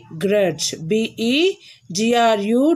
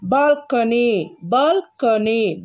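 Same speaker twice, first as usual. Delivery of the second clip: each syllable drawn out slowly; slow, careful dictation; slower than usual. Shown as a demonstration. Teacher reads balcony slowly so pupils can write. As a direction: spell it out slowly for the class to copy. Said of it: "pronounce after me".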